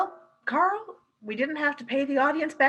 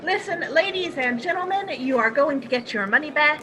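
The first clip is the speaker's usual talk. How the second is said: calling out; 4 semitones higher, 4 dB louder than usual. Acted. Addressing the cinema audience.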